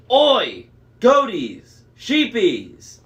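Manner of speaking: loud, high monster bellow calling the flock; Cyclops roaring. A narrator's reading. Cyclops bellowing for his flock. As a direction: roar it out like a giant herding sheep. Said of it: "the Cyclops roared".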